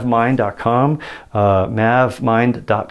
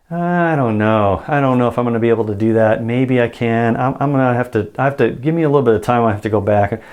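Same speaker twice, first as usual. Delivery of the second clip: evasive indirect reply. Retold or imitated. Client dodging a pushy salesman, evasive hedging reply. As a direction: dodge the answer, stall for time. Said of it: "Indirectly like this".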